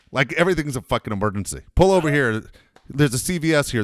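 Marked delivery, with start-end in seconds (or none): 1.7-3.8 imitating dad's demand. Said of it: "my dad's the guy that will tell you".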